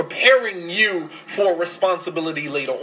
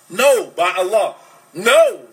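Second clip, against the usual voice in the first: firm denial; 5 dB louder, slower than usual. Retold or imitated. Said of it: "And Khadija said".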